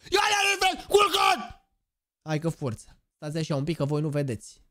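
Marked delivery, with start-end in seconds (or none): 0.1-1.7 high excited shout; yelling. Real, not acted. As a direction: belt it out at chat. Streamer yelling catchphrase. (strigăt entuziasmat către chat)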